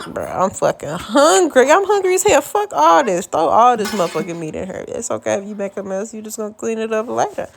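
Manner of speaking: playfully fed-up, hungry self-talk; hammed-up hungry inner voice, rising then settling; hungry inner rant. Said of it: "but I'm just like".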